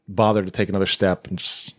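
tired whisper. Pretend. Imitating exhausted survivor.

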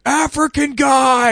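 loud, high, slow yell. Retold or imitated. Heckler in the theater yelling, slow loud shout. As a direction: bellow it across the theater. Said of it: "some guy started yelling".

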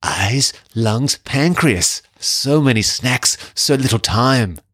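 slow, drawn-out, lightly growled monster voice; a half-hearted Venom rumble, dragged slow; hammed-up slow Venom line read. Shown as a demonstration. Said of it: "do it in the Venom voice".

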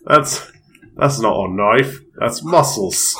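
mock Aussie movie-line delivery; Australian accent. Answering a friend's riff, mock Australian accent. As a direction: play it as a hammy Australian. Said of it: "I'm Australian".

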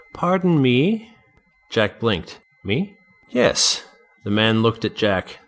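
put-on stiff, annoyed tall old man; haughty old gentleman. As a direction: look down on him, irritated. Gray-haired man speaks.

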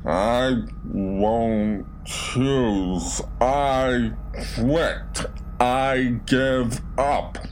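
slow, croaking dead voice; dry croak. A narrator's reading. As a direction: croak it out slowly. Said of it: "My voice was a dry croak".

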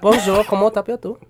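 French attempt. Shown as a demonstration. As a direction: try out a schoolroom French greeting. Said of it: "the only French word you know".

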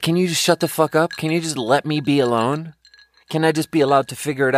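a fed-up burst aimed at the game; exasperated outburst. Real, not acted. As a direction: snap at the game to leave you alone.

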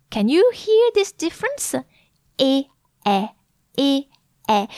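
high closed é then open è, alternating; contrast demo. Shown as a demonstration. Scene: teacher contrasting é and è for students. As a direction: smile for é, open wide for è. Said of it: "practice saying these".

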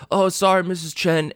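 a lightly done bad Brooklyn accent; Tom Hardy Brooklyn accent. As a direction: mumble it like a mock Brooklyn tough guy. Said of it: "my best Tom Hardy doing a bad Brooklyn accent".

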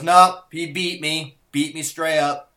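a fading mock Russian accent; Teddy KGB accent. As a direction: concede grandly like a Russian boss. Quoting Teddy KGB line.

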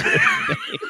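high-pitched helpless laughter while talking; cracking up at a memory lapse; laughing. Real, not acted. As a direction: squeeze the words out through laughter.

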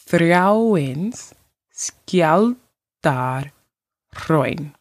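Þráinsskjaldárhraun very slowly, part by part. Shown as a demonstration. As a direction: stretch Þráinsskjaldárhraun out with pauses between its parts. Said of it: "I will say it slower".

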